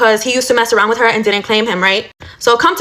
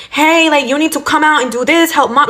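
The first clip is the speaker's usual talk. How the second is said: pushy, higher-pitched demand; 5 semitones higher than usual. Retold or imitated. Sister barging into the room ordering her brother, demanding and higher. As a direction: boss him around like a bossy sister. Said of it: "like, very demanding".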